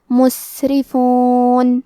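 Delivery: مسرفون slow with breathy, airy seen; whispered hams on seen. Shown as a demonstration. Teacher demonstrates breathy seen to students, slow recitation. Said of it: "ہم یہ کلمہ کو ایسے پڑھیں گے".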